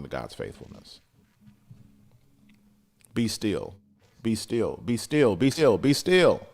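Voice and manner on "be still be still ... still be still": building command. Real, not acted. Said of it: "repeated command building".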